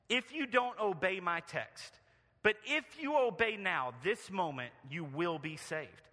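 lightly voiced preacher's warning, rising on each phrase; country preacher. Preacher singling out a miserable young stranger, mildly hammed-up pulpit warning. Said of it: "He continued".

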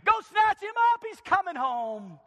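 loud, high, rushing to go; God calling his angels, loud and high with excitement; eager God. Acted. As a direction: burst with impatience to fetch him. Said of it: "God just says".

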